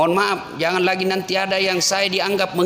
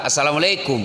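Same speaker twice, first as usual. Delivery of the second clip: mumbled youth greeting; 5 semitones lower than usual. Retold or imitated. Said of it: "assalamualaikum anak muda".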